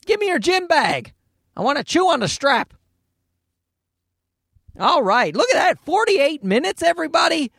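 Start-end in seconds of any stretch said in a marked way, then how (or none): 0.0-2.7 put-on a cranky toddler brushing off toys; baby son's voice. Dad voicing baby son rejecting a toy, high mock baby grumble. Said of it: "He's just like".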